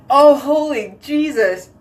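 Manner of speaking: overwhelmed by the stench; disgusted by smell. Real, not acted. Dog poop smell in bathroom.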